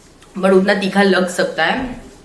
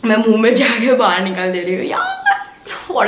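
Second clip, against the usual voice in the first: helpless laugh at the heat; 4 semitones higher, 3 dB louder than usual. Real, not acted. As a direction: laugh through the burning. Spicy food, laughing in distress.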